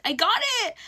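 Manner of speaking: high, loud happy cry; excited announcement. Retold or imitated. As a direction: blurt out the news with joy. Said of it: "I run up to her and I'm like".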